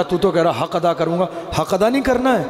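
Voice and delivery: mother's amused question with a laugh, pitch leaping up; gently mock the son through laughter; mother chuckling as she reminds her son of his promise; teasing laugh.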